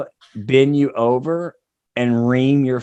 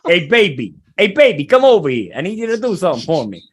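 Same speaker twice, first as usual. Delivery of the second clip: husband coaxing; 2 semitones higher, 4 dB louder than usual. Acted. Husband calling his wife over, louder and coaxing. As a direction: call her over sweetly then rush the ask.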